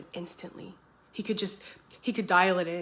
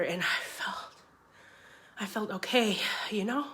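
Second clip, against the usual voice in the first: fragile whisper; 2 semitones higher than usual. Acted. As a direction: breathe the words barely voiced. Emotional admission of feeling okay.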